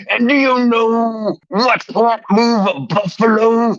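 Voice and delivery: lightly voiced wrestling promo, brother; a hint of Hulk Hogan hyping the crowd; Hulk Hogan style. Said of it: "I'm gonna do this Hulk Hogan style".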